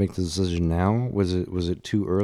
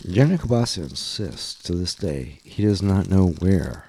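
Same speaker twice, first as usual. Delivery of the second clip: mock serious news report; deadpan anchorman delivery; news anchor read.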